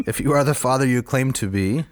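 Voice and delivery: lightly voiced giant's curse; a hint of a brooding giant praying; Cyclops voice. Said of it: "in my Cyclops voice".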